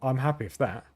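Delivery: flat monotone delivery. Real, not acted. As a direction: say it with no life, monotone. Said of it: "by my monotone voice".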